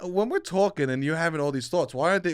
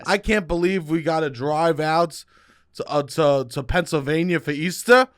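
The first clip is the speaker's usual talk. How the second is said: heartfelt groan demo. Shown as a demonstration. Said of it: "Now that's a sentence".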